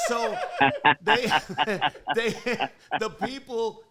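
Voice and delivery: high, loud, squealing through laughter; real helpless laughter. Real, not acted. Friend retelling his cellmate's mummy story, cracking up, voice squealing high. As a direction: struggle to get the story out while cracking up.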